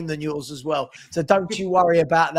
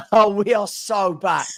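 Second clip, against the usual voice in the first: laughing joy; slower than usual. Real, not acted. Celebrating the signing.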